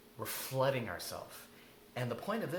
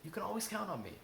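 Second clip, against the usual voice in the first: tender reassurance; 8 semitones higher, faster than usual. Shown as a demonstration. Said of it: "put some emotion in your voice".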